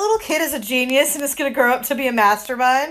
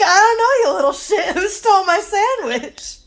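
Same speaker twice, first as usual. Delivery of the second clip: high-pitched mock taunt through laughter; laughing retort; 8 semitones higher than usual. Listener voicing the teacher's comeback to the little thief, laughing. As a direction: laugh while throwing the question back.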